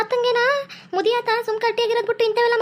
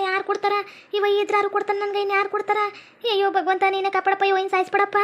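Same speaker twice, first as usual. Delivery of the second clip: mock prayer. Wife prays softly for death.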